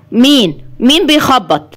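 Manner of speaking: startled at the banging door; mild alarm. Acted. Sabri hears police knocking, mildly alarmed. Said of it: "صبري بفزع".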